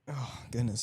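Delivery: speaking through a burp; talking while burping. Real, not acted. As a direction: burp as the words come out. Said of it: "Sorry, I'm burping over here".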